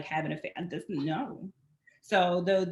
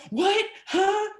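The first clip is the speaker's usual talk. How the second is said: mock confused man; 9 semitones higher than usual. Man reacting, voiced mockingly.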